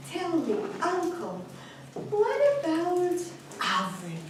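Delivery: hesitant, softened question with pauses; with trepidation. A narrator's reading. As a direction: ask haltingly, dreading the answer. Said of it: "And with intrepidation, he said".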